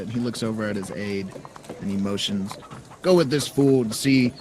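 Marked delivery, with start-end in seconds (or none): 3.0-4.3 mayor's order. Acted. Mayor orders his aide.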